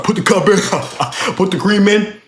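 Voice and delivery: teasing copy of a bossy coworker; mocking. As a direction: mockingly parrot the orders with a chuckle. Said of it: "I started mocking him".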